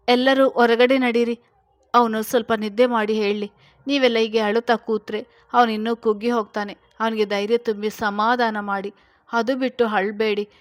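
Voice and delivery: loud firm scolding of the family. Acted. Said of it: "ಎಂದನು ಗದರಿದಂತೆ". (ಜೋರಾಗಿ ಗದರಿಸುತ್ತಾ)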